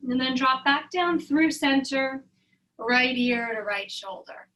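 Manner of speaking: calm meditation-teacher voice; measured, soothing instruction with unhurried pauses; guided meditation. Real, not acted. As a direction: gently guide them into stillness, leaving room to breathe. Leads breathing and meditation practice.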